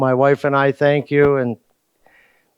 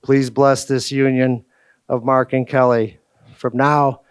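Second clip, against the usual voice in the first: prayer. Acted. Leads the Lord's Prayer.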